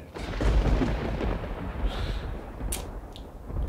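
long, breathy, voiceless chuckle; creepy vampire chuckle. Acted. Vampire laughing at his own creature-of-the-night joke, breathy chuckle. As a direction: wheeze out a self-amused vampire laugh.

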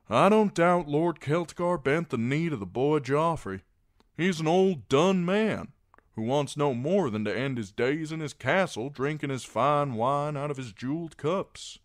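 loud, high, pressing argument; blunt, forceful rebuttal; Davos, challenging. A narrator's reading.

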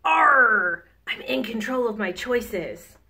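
hearty pirate growl with a loud Arr. Pretend. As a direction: play it like a swashbuckling pirate. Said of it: "Let's try it in a pirate voice".

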